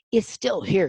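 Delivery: an enraged ghost storming downstairs; furious cry. Acted. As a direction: spit it out in fury. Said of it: "he cried".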